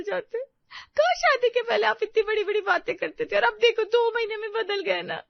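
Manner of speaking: sobbing complaint, high and loud; tearful outburst at her husband; crying. Acted. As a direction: wail it out through tears. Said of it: "Siya जोर जोर से रोने लगती है".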